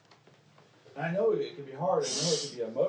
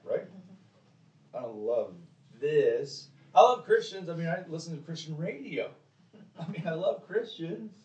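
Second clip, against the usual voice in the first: mock lukewarm Christian; 3 semitones higher, 4 dB louder than usual. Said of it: "It's like".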